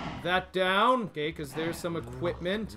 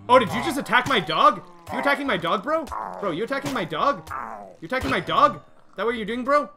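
high whiny indignant complaining; 4 semitones higher, 6 dB louder than usual. Real, not acted. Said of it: "scolding mob over his dog".

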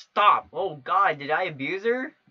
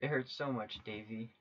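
pained whisper-soft mother; 3 semitones lower, 6 dB quieter than usual. Acted. Mother voiced in pain.

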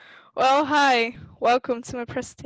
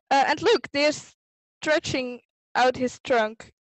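put-on lively storybook read for kids; reading to children. A narrator's reading. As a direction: read it like a bedtime picture book. Continues reading the book.

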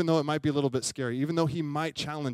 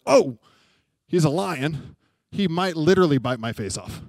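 loud "Oh", then emphatic warning; retold jolt of sudden alarm; alarmed realization; 7 dB louder than usual. Sudden realization facing a lion.

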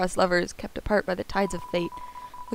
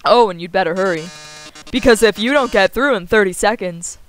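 smug game show host; teasing, grand, loud host; showy host; 6 dB louder than usual. Acted.

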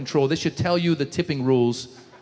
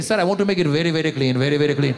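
put-on eager Indian accent; 4 semitones lower, faster than usual. Cleaner voiced earnestly.

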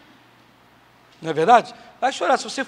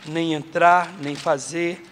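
ordinary delivery

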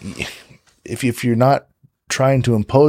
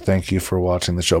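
low, dull sign-off; flat low delivery; 4 semitones lower, 4 dB quieter than usual. Shown as a demonstration. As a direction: say it like you don't care. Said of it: "if you say something like this".

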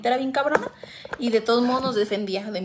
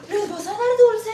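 mock judgmental; 11 semitones higher, 8 dB louder than usual. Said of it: "no les digo".

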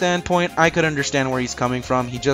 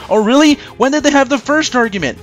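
sarcastic; 10 semitones higher, 5 dB louder, faster than usual. Real, not acted. Mocking a line from the film.

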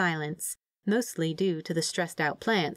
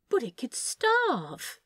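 higher, slow fretful worry; fussing; 6 semitones higher, much slower than usual. A narrator's reading. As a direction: fret over the little machine. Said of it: "Aziraphale fussed".

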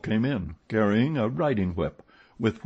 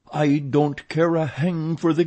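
loud, higher-pitched angry roar; irritated, raised-voice outburst; 8 semitones higher, 5 dB louder than usual. A narrator's reading. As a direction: roar it in defiance. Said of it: "roared Richard".

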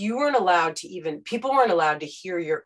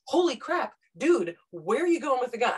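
startled reporter; 5 semitones higher than usual. Retold or imitated. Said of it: "a human being in the moment going".

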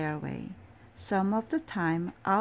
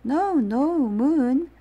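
higher, louder gentle protest; 6 semitones higher, 7 dB louder, slower than usual. Acted. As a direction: wave the moon off firmly. Owl shoos the moon.

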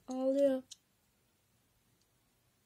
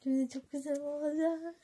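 a touch of higher, pleased gushing; mild gushing; 3 semitones higher than usual. Acted. The girl will say it again, mildly gushing. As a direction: say it pleased but calmer. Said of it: "Yine diyecek".

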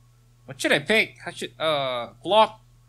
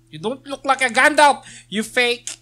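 teasing jab; 7 semitones higher, 6 dB louder than usual. Pretend. Teasing the trainer NPC.

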